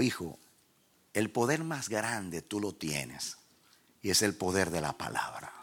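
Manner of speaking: low, measured fatherly God. Retold or imitated. God counselling the preacher on the power of the word, low and measured. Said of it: "Dios entonces me habló".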